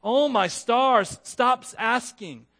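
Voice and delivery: slow, drawn-out mock exasperation; a hammed-up fed-up God; exasperated God. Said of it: "read this text like".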